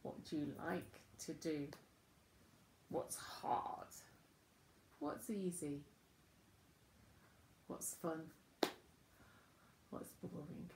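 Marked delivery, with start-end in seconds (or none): 2.9-3.9 hushed whispered question. Acted. Teacher asking children about school. 7.7-10.7 soft whispered question. Acted. Teacher asking children about school.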